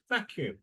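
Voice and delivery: Vacuum with VAC as the strong part; stress on first syllable. Shown as a demonstration.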